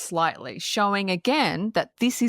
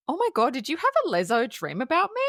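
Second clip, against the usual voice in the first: teasing Lily; 6 semitones higher, faster than usual. Retold or imitated. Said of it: "I love this by Mila Kunis. She's like".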